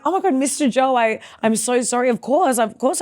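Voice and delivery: high, tumbling apology; flustered apology. Retold or imitated. Student apologizing to the rapper she failed to recognize, flustered. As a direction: re-enact falling over yourself to apologize. Retells frantic apology to star.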